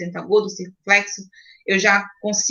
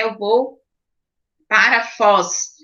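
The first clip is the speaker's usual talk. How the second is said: example sentence; slower than usual. Shown as a demonstration. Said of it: "então Foz".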